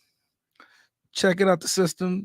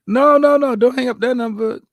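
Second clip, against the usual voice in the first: urgent shout; 5 semitones higher, 7 dB louder than usual. Real, not acted. Urgently stopping a hang-up.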